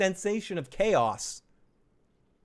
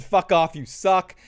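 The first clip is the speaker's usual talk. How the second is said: mock yell; 2 semitones higher, 6 dB louder, slower than usual.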